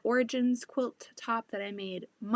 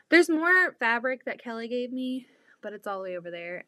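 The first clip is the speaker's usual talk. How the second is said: winded, talking out of breath; short of breath from talking; 4 dB louder than usual. Real, not acted. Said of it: "I'm out of breath from talking".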